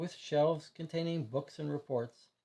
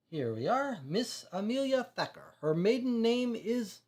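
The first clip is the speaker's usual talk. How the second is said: put-on higher French-accented reading of records; 6 semitones higher than usual. Consul reading the woman's record aloud, French-accented. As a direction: read the file in a careful French accent. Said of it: "He has a slight French accent".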